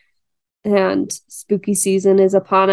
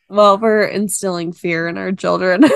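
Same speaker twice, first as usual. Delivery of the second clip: laughing. Real, not acted. Laughing about scaring kids.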